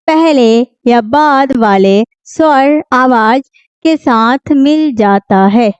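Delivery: slow, word-by-word textbook reading; measured teacher's read-aloud. Shown as a demonstration. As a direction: read the rule out slowly with pauses between phrases. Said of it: "पढ़ के भी सुना देते हैं".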